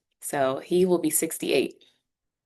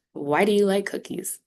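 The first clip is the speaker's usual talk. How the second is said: "Why do you like cookies?" higher in the middle, easing down; dropping intonation; 4 semitones higher than usual. Shown as a demonstration. Teacher showing students wh-question intonation, dropping off. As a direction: raise "do you like", then let "cookies" drop. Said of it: "Your intonation will drop".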